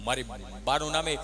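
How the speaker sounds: low, soft deadpan reply; cheeky pupil. Retold or imitated. Pupil Gabha replying to the teacher, low and deadpan. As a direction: drop the voice and answer dryly. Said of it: "Gabho એવો ઈ કે".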